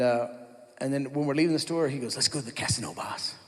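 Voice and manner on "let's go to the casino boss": a lightly voiced coworker's lazy invite, softer; imitating Daniel. Buddy urging the boss toward the casino, lightly imitated. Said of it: "That's how he would say it".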